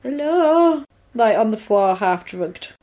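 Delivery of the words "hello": slow, higher questioning call; imitating. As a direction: call out tentatively, drawn out. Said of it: "he's like".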